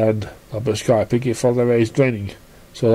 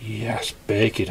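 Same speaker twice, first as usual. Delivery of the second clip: whispering to herself; whispered thought; 6 dB quieter, slower than usual. Acted. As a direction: hush it as a thought. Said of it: "I thought".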